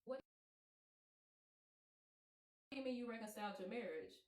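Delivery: loud, stunned demand for answers; shocked confrontation. Retold or imitated. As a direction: confront him loudly, re-enacting the shock. Shocked confronting him over reconciled marriage.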